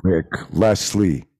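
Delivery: loud, drawn-out greeting; shout-out. Real, not acted. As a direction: call out slowly to the neighbors. Giving requested shout-out to neighbors.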